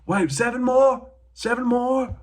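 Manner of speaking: high squeaky disbelief voice; incredulous fighter. Retold or imitated. Dazed fighter watching his opponent's backflips, squeaky disbelief. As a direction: squeal it in comic shock.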